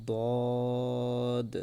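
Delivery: বদ said full and kept apart from দাল; Arabic letter demo. Shown as a demonstration. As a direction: model বদ with a heavy, distinct sound. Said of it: "আরেকবার উচ্চারণ করি একসাথে সবাই". (দাল থেকে আলাদা করে বদ উচ্চারণ)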